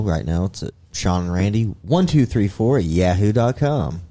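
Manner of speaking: smooth radio ad voice, reading out the email; commercial read. Shown as a demonstration. Host reads email address like a radio ad. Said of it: "You see how commercially that sounded?".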